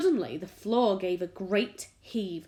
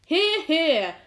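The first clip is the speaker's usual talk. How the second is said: high, loud cheer; cheering shout; 8 semitones higher, 9 dB louder than usual. A narrator's reading. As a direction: shout agreement together. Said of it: "they all shouted".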